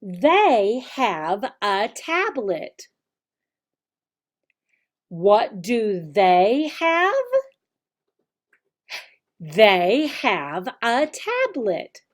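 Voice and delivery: slow, exaggerated teacher voice, brighter on questions; slow teacher modeling. Shown as a demonstration. Teacher modeling the lesson for children, slow and clear. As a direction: model each sentence slowly and clearly for little kids. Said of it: "this is how you would start teaching".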